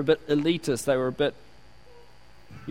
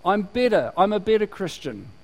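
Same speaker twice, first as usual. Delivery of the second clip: mock superior Christian; 2 semitones higher than usual. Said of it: "because you're saying".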